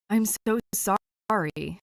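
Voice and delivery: slow, weary apology; wrung out. A narrator's reading. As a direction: sound drained and sorry. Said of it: "He sounds wrung out".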